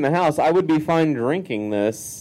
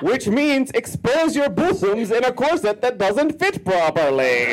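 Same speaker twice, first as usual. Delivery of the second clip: slow, raised Count vampire voice; 5 semitones higher, slower than usual. Acted. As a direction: read it like the Sesame Street vampire. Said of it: "The Count".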